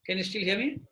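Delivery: distant, muffled, mic pulled away; mic far away. Shown as a demonstration. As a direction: speak from far off the microphone. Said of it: "my mic is very far away".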